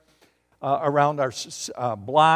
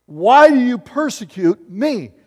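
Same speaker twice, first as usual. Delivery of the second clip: louder, higher divine question; voice from heaven; 7 semitones higher, 10 dB louder than usual. Acted. Jesus questioning Saul on the road, louder. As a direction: demand it like the heavenly voice. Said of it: "heard a voice say to him".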